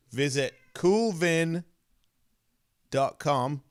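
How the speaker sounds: slow, careful sponsor read. Acted. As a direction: read the ad copy deliberately, slowly. Reads sponsor ad copy.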